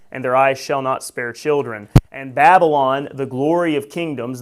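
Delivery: preacher reading prophecy aloud; scripture reading. Acted. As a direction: read God's words with weight. Reads Isaiah prophecy aloud.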